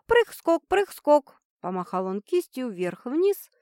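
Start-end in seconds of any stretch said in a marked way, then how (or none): 0.1-1.4 bouncy, high playful chant; playful sing-song. Acted. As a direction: hop the words like a bunny. Playful hopping bunny gesture. (игриво, нараспев)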